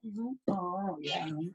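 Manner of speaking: soft, distracted murmurs of agreement; half-listening to a chattering child; quiet, tuned-out mm-hmms; absent mm-hmm. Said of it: "I go".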